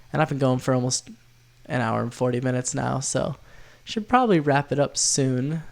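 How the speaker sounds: stuffy nose from a cold; sick nasal voice. Real, not acted. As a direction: talk through a blocked nose, tired. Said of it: "my sick, nasally voice".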